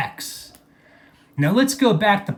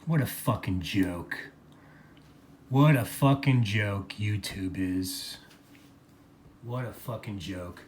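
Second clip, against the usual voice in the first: a low, much softer mutter, full of disgust; 8 semitones lower, 9 dB quieter than usual. Real, not acted. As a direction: mutter it to yourself, fed up. Bitter aside after the rant.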